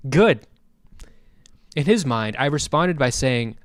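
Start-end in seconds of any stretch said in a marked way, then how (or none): 0.1-0.5 louder, forced cheery reply; mock-warm, punched-up cheer; massive fake smile. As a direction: say it through a fake grin. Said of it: "with the same massive fake smile".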